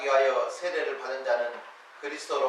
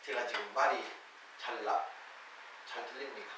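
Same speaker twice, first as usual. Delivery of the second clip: slurred words from dental anesthesia; numb mouth; 5 semitones lower, 11 dB quieter than usual. Real, not acted. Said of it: "내가 내 입이 아니에요". (마취로 입이 얼얼한 말투)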